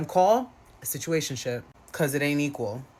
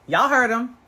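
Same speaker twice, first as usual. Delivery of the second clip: mock exclaim; 7 semitones higher, 6 dB louder than usual. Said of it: "I don't know what accent I'm going with".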